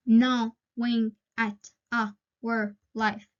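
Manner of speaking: slow, syllable by syllable: "Gnawing at our life"; slow syllable count. Shown as a demonstration. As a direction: read "Gnawing at our life" slowly, tapping out each syllable. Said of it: "let's check".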